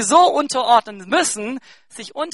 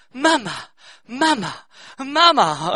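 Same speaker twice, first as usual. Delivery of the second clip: put-on toddler calling Mama; 2 semitones higher, 5 dB louder, slower than usual. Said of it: "sagt tausendmal".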